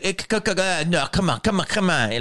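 lightly mimicked pushy creep; stammering, insistent coaxing, lightly imitated; scumbag guy. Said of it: "like that".

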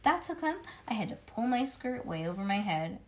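ordinary delivery

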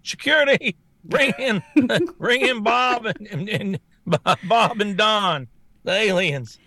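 laughing mock official. Acted official calling security.

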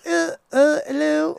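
high-pitched hesitant Southern hello; nervous squeaky Southern drawl; Oscar's Southern accent. Retold or imitated. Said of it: "Oscar's accent, his Southern accent".

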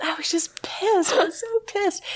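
high, laughing retelling. Real, not acted. Storyteller cracks up at own rage, laughing voice. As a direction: crack up while admitting it.

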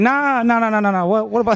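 high, rapid-fire dismissal; mock impatient. Host playing a pushy question-asker, mock impatient. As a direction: brush it off in a high, playful rush.

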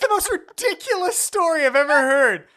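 mocking parody. S2 parodies S1's stock talk.

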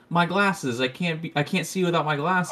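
a hint of a flustered Velma; a lightly voiced Velma, fussing over her glasses. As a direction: whimper about the lost glasses. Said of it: "she's like".

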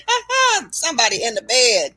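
a light imitated chuckle, then the words; mock laugh. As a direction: laugh it off the way he did. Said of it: "he started laughing and said".

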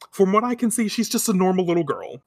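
first read as Usagi; voiced as Usagi. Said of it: "Or no, he says that".

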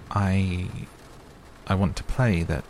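Mary stammers to the gardener about a garden; stammering. Acted. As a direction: falter shyly over the words. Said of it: "she stammered".

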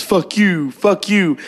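high-pitched mock cursing; angry friend. Friend texting back while I'm on the road, mock angry. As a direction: imitate a friend cursing you off. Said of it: "And he says".

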